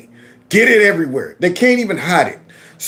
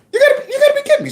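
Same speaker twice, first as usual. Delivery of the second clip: laughing disbelief; much faster than usual. Real, not acted. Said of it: "laughing disbelief".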